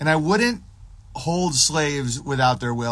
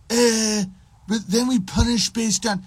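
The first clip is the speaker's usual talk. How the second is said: high-pitched mock objection; mocked libertarian; 9 semitones higher than usual. Libertarian arguing back about punishment, mocked high voice. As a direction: butt in with a put-on high voice.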